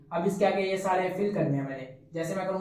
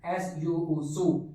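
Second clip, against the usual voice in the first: slow spelling demo; much slower than usual. Shown as a demonstration. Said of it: "और इस तरह".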